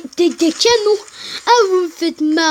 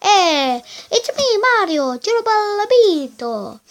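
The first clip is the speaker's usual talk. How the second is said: faux accent pirate italien, léger; 5 semitones higher than usual. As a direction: imite un pirate à l'italienne. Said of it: "Avec mon accent de pirato". (accent de pirate italien surjoué)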